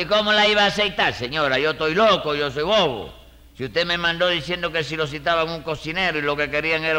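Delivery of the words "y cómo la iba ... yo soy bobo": worked-up comic indignation; indignant. Acted. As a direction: protest as if it were absurd. Indignant comeback to an accusation.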